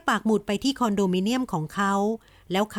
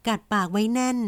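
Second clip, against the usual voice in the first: usual speaking voice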